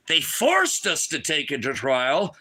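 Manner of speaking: slow, disbelieving question, rising at the end; stretched-out indignant question; incredulous echo. Real, not acted. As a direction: repeat it back in disbelief. Incredulous echo of investigator's words.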